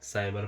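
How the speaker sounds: साइबर said slowly as "saibar" with a soft s; slow model word. Shown as a demonstration. Teacher showing students the soft c in साइबर, slow and clear. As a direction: spell out साइबर with a soft s at an unhurried pace. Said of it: "इसको हम".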